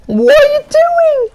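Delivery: high slow yell at the screen; frustrated shout. Real, not acted. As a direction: yell at your useless troops. Yelling at own troops.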